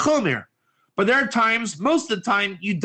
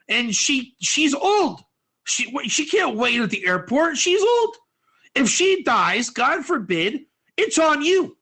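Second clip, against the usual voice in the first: higher pleading, whining excuse-maker; whiny excuse; 4 semitones higher than usual. Acted. Man whining to the bank teller about his old grandmother, higher pleading. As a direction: beg your way out of the line, whining.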